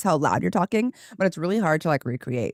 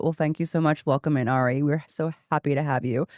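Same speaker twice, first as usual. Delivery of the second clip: don't let the greeting lift in pitch; lower register. Shown as a demonstration. Streamer welcoming a follower, voice deliberately kept low. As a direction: welcome held low on purpose. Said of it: "keep my voice in, like, the lower register, on purpose".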